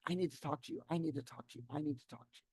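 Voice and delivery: hushed, insistent repeats standing in for a scream; mock screaming text. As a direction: repeat it like an alarm going off in your head. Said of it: "It would literally scream off the page".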